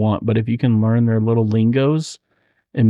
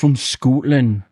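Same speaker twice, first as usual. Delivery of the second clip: Scottish accent; 2 semitones higher, slower than usual. Shown as a demonstration. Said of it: "it's become the Irish".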